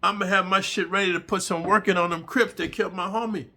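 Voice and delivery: hammed-up prison threat; threatening cellmate. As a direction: warn him off, menacing. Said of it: "He said".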